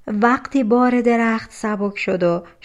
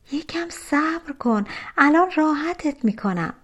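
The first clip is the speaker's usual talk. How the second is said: high, gentle reassurance; reassuring; 7 semitones higher than usual. A narrator's reading. Girl promises the hurt lion relief, high and reassuring. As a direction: soothe in a lifted storybook voice.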